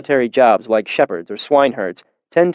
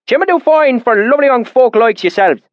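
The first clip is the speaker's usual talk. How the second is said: put-on deep valley accent; 12 semitones higher, 4 dB louder than usual. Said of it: "his accent so thick and oily".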